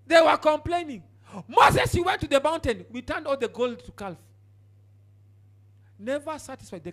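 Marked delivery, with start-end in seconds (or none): 1.5-4.2 louder, higher taunting call; mock shouting crowd. People shouting at Moses.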